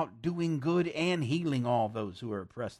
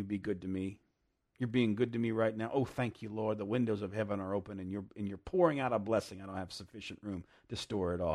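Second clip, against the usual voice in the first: model prayer; 3 semitones lower, faster than usual. Acted. Preacher voices a model prayer.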